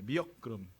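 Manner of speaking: "미역 그럼" run together as an English phrase; "미역 그럼" passed off as English; American-sounding milk. Shown as a demonstration. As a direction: say milk as "미역", gliding into "그럼". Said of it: "미역 그럼 알아들어요".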